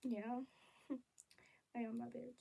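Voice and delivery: baddie. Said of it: "I turn into an actual baddie".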